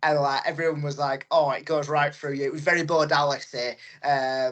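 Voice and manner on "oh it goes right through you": ordinary delivery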